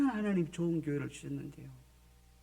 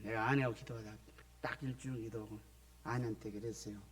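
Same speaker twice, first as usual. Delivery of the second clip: normal talking voice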